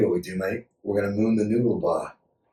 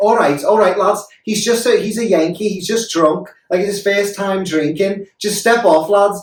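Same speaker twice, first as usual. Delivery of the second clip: high, loud put-on Scouse accent; 10 semitones higher, 5 dB louder than usual. Retelling what his Liverpudlian girlfriend said to the men: imitating a Liverpudlian accent. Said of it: "Liverpudlians have a very specific accent".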